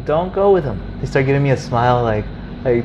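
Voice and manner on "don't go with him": higher, louder warning call; imitated shout across the shops; retold yelling. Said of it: "they start yelling at me".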